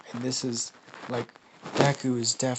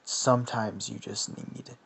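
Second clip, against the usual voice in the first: Venom; 2 semitones lower, 5 dB quieter, slower than usual. Acted. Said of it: "And Venom's like".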